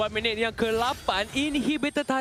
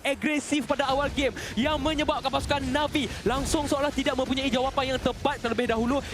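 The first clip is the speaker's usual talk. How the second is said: lively live commentary; esports caster. Acted. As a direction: keep the play-by-play rolling. Live play-by-play casting.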